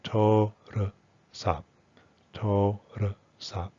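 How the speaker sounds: "to, r, sa" with the middle shrunk to a short "ruh"; reduced pronunciation. Shown as a demonstration. Teacher models everyday Thai, "r" reduced to schwa. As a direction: say "to, r, sa" with a quick neutral schwa on "r". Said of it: "it would be something like".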